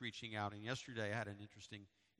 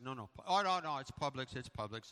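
insistent correction; 2 semitones higher, 6 dB louder than usual. Retold or imitated. Correcting the clerk's wrong brand.

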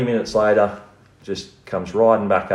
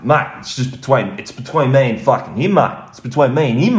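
high, louder mock protest; off-his-head intruder; 7 semitones higher, 5 dB louder than usual. Caught intruder excusing himself to the homeowner, high mock protest. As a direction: plead it out high and insistent. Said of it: "He was off his head".

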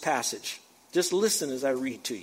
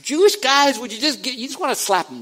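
loud, high, worked-up outburst; mock exasperation; 8 semitones higher, 6 dB louder than usual. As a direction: play fed up, half joking.

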